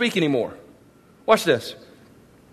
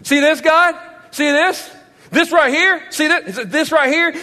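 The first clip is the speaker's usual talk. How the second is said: taunting Satan; 5 semitones higher than usual. Retold or imitated. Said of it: "Satan's going".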